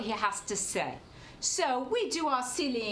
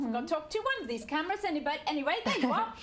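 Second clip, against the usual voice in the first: lightly voiced comic barmaid; chatty pub barmaid character voice; Lucy Lepper barmaid voice. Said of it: "that's why I'm talking like this".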